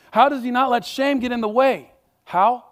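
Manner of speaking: pressing the congregation for an answer; preaching emphasis. Real, not acted. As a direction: push the question hard. Preacher presses rhetorical question.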